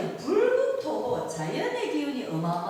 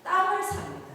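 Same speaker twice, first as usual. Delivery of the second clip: laughing punchline; 10 semitones higher, 5 dB louder than usual. Real, not acted. Punchline to audience quiz.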